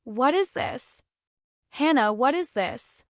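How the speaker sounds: breathless panicked questions. A narrator's reading. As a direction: ask it in sudden panic. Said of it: "absolute, unadulterated panic".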